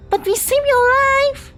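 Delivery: high, loud and drawn out; pleading outrage at ingratitude; slow, high indignant shout; indignant outcry. Acted. Doll protests to distrustful Coffee.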